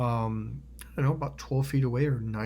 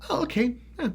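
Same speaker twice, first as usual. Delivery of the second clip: high, light casual acceptance; switched-off rage; 12 semitones higher, faster than usual. Retold or imitated. Showing how they drop the rage act, breezy. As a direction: flip to mild and agreeable, pitched up. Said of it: "like, you turned off the water faucet".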